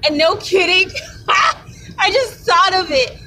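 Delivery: lightly high, slow imitated voice; hint of that dude's voice. Recalling a man's voice, lightly high imitation. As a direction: slip into his odd voice, laughing. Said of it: "That dude's voice kinda sounded like that".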